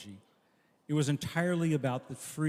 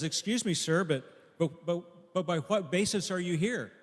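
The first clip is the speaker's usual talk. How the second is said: astonished angel; 4 semitones higher, 4 dB louder than usual. Acted. Angel questions thief at gates.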